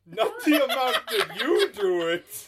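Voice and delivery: indignant Santa, high and loud then settling; hammed-up American Father Christmas scolding. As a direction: lecture sternly in a silly Santa voice. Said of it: "keep up this accent".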